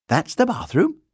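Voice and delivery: put-on high, loud child's voice; chattering girl. A narrator's reading. Girl showing the bear round upstairs, chattering. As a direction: point it out cheerily as a girl.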